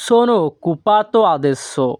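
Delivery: slow, even delivery; slow model phrase. Shown as a demonstration. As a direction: say it slowly for the class. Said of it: "তাহলে ইতালিয়ান ভাষা". (ধীরে উচ্চারণ)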